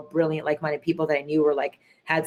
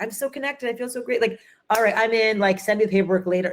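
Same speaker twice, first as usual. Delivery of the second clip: much higher, giddy and eager; thrilled investor; 5 semitones higher than usual. Retold or imitated. Investors at the dinner party writing checks, giddy. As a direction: sign on the spot, swept up.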